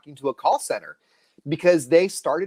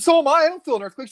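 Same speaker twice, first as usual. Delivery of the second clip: high, loud incredulous reply; a hammed-up so am I; retold disbelief; 12 semitones higher, 4 dB louder, faster than usual. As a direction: protest in mock disbelief. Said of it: "I said".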